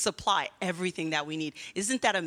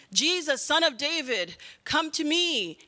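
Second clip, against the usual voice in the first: raised, higher mock call; imitating calling out; 4 semitones higher than usual. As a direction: call out pleadingly, a mild storytelling shout. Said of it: "he started shouting out".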